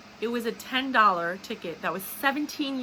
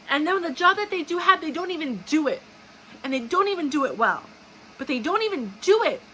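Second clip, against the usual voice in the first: heated rant; 4 semitones higher, 3 dB louder than usual. Real, not acted. Rant about lazy city workers.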